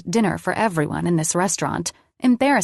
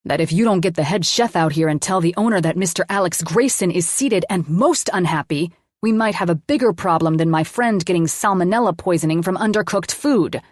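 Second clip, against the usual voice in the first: a bit more aggressive. Acted. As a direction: lean on the waiter harder, faster. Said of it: "a bit more aggressively".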